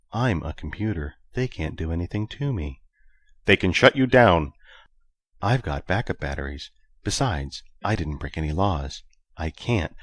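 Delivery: computer voice. Acted.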